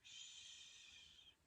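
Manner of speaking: breathy shush, barely voiced. Shushing her crying daughter so he won't hear. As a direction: hush someone silently. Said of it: "I just went".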